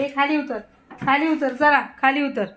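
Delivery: firm call. Real, not acted. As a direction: call him down firmly. Mother ordering child off something. (मुलाला ठामपणे खाली उतरायला सांगणे)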